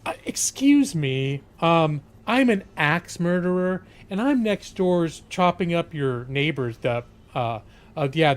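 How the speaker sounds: mildly embarrassed neighbour asking a favour; lightly voiced sweet, timid axe murderer; polite axe murderer. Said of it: "sweet, innocent-looking guy at the door".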